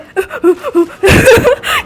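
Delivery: high, mock boo-hoo sobs through laughter; imitated crying. Showing how the friend cries, high mock sobbing. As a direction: laugh out a fake sob. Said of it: "Kayak gitu dia nangis".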